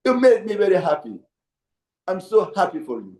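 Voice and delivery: lightly voiced rabbi offering cheerful mazal tov; mock congratulations. Rabbi to troubled congregant, lightly mocking cheerful congratulation. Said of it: "So the Mazal Tov".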